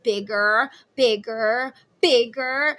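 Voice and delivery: put-on egging on like an excited child; eager kid. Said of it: "they're like".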